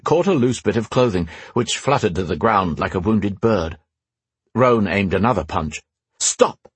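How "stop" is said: commanding. Acted. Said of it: "Gwendolen commanded".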